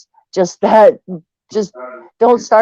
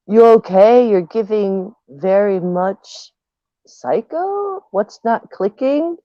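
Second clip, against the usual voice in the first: mocking read; slower than usual. Reading a chat reply mockingly.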